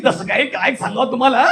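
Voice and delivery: uproarious laughing narration. Shown as a demonstration. Storyteller gossiping about neighbours, laughing uncontrollably. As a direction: tell it through helpless high laughter. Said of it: "हास्यरस".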